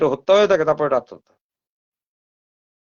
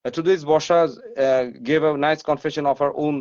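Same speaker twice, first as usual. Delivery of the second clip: neat Bengali English; 2 semitones lower, much slower than usual. Retold or imitated. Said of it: "আমরা সুন্দর করে বলি".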